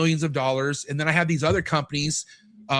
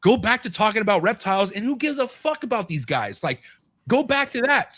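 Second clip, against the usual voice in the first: self pep talk; 6 semitones higher than usual. Retold or imitated. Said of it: "And I told myself".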